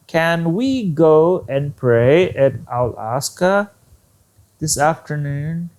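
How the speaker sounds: slow question, rising on "Alaska" and "afternoon"; demonstrated question intonation. Shown as a demonstration. Teacher shows question intonation slowly, phrase by phrase. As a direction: spell out "Can we go" slowly, lifting phrase ends. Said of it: "did you hear my intonation".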